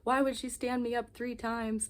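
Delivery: high, upset disbelief; freaking out. Retold or imitated. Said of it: "I was freaking out earlier".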